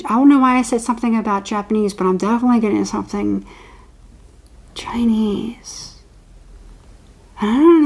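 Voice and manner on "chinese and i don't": hushed secretive whisper. Real, not acted. Tarot reader confiding a vision to viewers, whispering.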